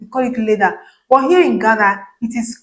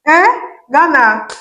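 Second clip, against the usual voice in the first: sharp, high, loud exclamation of disbelief; a loud startled eh; shocked eh; 5 semitones higher, 4 dB louder, slower than usual. Real, not acted. Shock at the price.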